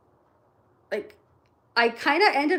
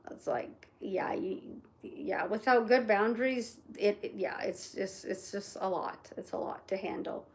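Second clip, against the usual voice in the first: softer, half-whispered aside; 3 semitones lower, 6 dB quieter than usual. Real, not acted. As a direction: let it fall to a breathy aside. Weary aside, mostly unvoiced.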